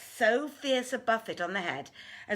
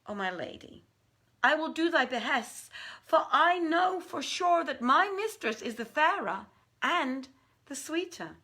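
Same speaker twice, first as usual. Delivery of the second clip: much higher and louder, an eager jinni's voice; eager Ifrit; 9 semitones higher, 5 dB louder than usual. Acted. Danash answers Maymunah's wager, high and eager. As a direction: accept the bet with lifted excitement.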